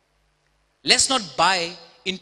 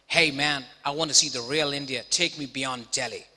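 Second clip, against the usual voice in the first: attempted American accent; 4 semitones lower than usual. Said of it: "I don't have such a good American accent".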